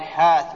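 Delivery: حاث with the y replaced by long a; dialect long-vowel variant. Shown as a demonstration. Teacher shows a Bedouin variant, with long a. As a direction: say حاث as "haath", long a without a glide. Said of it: "ويقال حاث".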